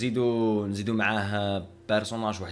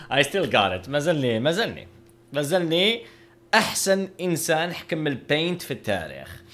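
mock boasting; 5 semitones higher, 4 dB louder than usual. Real, not acted. Boasting about his painting.

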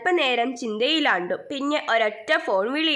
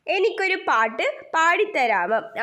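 higher-pitched story-character voice, lightly acted; confiding request; 5 semitones higher than usual. Kite asks the wind for a song, lightly voiced confiding request. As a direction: ask a little favour in a higher voice, rising at the end. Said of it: "ഒരു സ്വകാര്യം മേടക്കാറ്റിന്റെ കാതിൽ പറഞ്ഞു".

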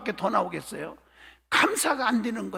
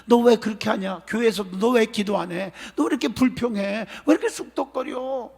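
lightly acted scolding questions; mild mock rebuke. Preacher as prophet reproaching a churchgoer, mild scolding. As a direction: reprove with one pointed question after another. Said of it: "나단 선지자가 주의 종이 책망할 때".

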